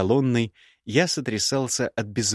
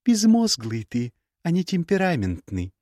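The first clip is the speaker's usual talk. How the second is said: put-on young woman's voice pitched higher, cool and cutting; higher, cool scornful young woman; Gerda's voice; 8 semitones higher than usual. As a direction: play the proud, scornful ex-bride. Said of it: "перебила его Герда".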